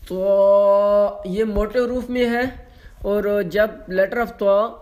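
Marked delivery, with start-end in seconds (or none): 0.1-1.2 طوا louder with mouth fully open; full-mouthed طوا; heavy open Toa. Shown as a demonstration. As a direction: open wide and press طوا. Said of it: "mouth fully open ہوتا ہے".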